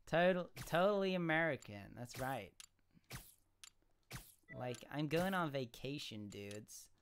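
hammed-up American vacation talk; American accent. Streamer imitating what Americans say, American accent. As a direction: play an American on spring break. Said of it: "That's what Americans say".

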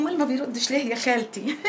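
laughing, mocking repeat; mocking echo. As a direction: mimic her question with a teasing laugh. Aunt mimics the girl's worried question. (تقليد ساخر بضحكة)

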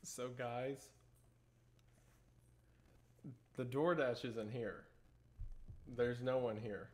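quietly spooked, insisting it was real; hushed and shaken. Real, not acted. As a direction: talk low like someone might be listening at the door. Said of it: "I am wigged out".

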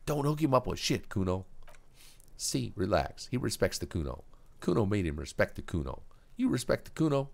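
put-on high, cocky kid making a threat; a punk kid trying to sound dangerous; Kuno threat. Kuno bargaining.

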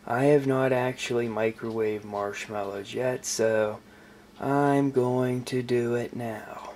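lazy stoner voice. Acted. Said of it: "my season one stoner voice".

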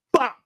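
short, sudden "bop" for a strike; imitated jab sound. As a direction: punch out a quick impact noise. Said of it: "his dad just went".

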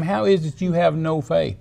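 acted reproachful question, no pause before "faith"; exasperated question in one go; upset rebuke. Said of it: "he got upset at the disciples".

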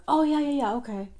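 quick, excited yeahs; eager agreement. Retold or imitated. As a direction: gush yes like he's thrilled. Friend agrees to plan eagerly.

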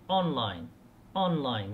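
online with the first syllable ON stressed. Shown as a demonstration. Teacher showing students ON-line stress. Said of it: "يوجد عندنا stress وهو الدائرة الكبيرة".

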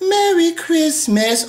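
high, slow mock Christmas greeting; mock Michael impersonator. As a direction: draw it out, high and mocking. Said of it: "with my high voice".

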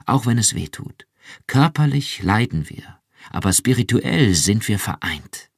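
viel höher und lauter, schwärmend; ekstatisch. Acted. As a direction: sich in Begeisterung steigern. (Iran schwärmt Rick ekstatisch vom Mitgefühl vor)

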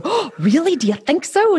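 mother teasingly pleased at a compliment; mock delighted surprise. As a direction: play it coy and thrilled. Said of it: "And I'll go".

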